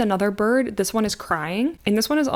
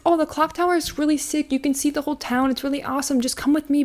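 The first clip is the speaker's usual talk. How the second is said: lightly voiced coaxing stranger, higher; mock creepy stranger luring kids; 6 semitones higher than usual. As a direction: sweet-talk the kids into coming along. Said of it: "He's like".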